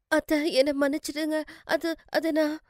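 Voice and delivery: high, faltering, scared plea; frightened apology. Acted. Daughter-in-law to mother-in-law over the broken plate, frightened. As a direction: beg forgiveness, stumbling over the words. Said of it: "ஏன் அவ்வளோ பயப்படுற?".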